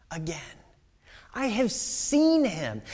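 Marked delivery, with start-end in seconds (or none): 1.3-2.8 slow joyful wonder. Acted. As if for the first time.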